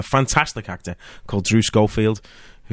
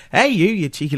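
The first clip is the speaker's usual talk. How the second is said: wife scolding; 7 semitones higher than usual. Retold or imitated. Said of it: "she went".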